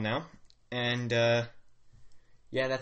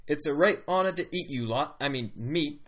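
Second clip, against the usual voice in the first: put-on wobbly Australian-British accent; chummy put-on Australian orc. Orc welcoming the party it may eat, Australian accent. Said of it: "This turned into an Australian accent".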